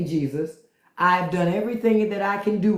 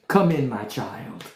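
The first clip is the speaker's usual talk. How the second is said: lightly voiced Saint Peter; 6 semitones lower than usual. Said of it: "Saint Peter say".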